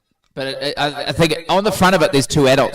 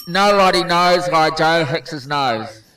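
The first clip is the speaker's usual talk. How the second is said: wearing a mouthguard; 3 dB louder, slower than usual. Real, not acted. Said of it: "mouthpiece in your mouth".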